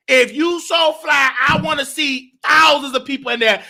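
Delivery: stretched-out taunting challenge. Real, not acted.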